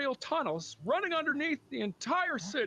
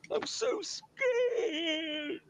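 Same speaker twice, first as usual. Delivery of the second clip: slow, whiny fake crying; mock whimpering; slower than usual. Jealous husband whimpering to his wife, hammed-up sobbing.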